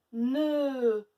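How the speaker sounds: NE loud and drawn out; stretched syllable. Shown as a demonstration. Teacher showing a syllable without A, stretched. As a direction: hold Ne as neee. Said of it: "on l'entend pas".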